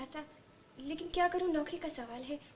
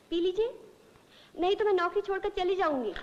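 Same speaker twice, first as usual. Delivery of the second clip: firm, insistent order; bossy insistence; 3 semitones higher, 3 dB louder than usual. Acted. Secretary threatening to quit unless patient takes medicine, insistent. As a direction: lay down an ultimatum. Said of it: "हर कोई मुझ पे हुक्म चलाता है".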